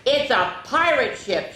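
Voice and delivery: put-on a mild excited kid shout; Sarah calling friends aboard; mock shout. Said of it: "she shouted".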